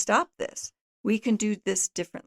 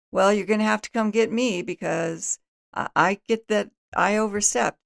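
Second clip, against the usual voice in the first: sarcastic; 3 dB louder than usual. Shown as a demonstration. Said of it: "That kind of cynicism and sarcasm".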